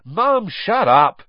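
loud, high, slow yell. Acted. Ron yelling at his screaming mum. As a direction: shout her down hard. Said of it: "Ron yelled".

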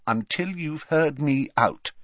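determined and insistent; firm. A narrator's reading. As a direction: hold your ground. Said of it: "said Hermione firmly".

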